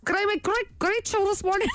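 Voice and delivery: high, badly faked Australian accent drifting off course; wobbly imitation Australian accent; wandering Australian accent. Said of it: "went from Australia to Bangladesh".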